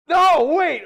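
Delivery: high, loud, panicked cry; mock panicked cry. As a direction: shout out in a panic. Quoting Lucius in alarm.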